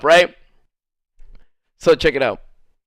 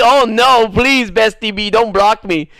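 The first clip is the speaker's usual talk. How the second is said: mock pleading; 2 semitones higher, 3 dB louder than usual. Sarcastic fake plea against being blocked.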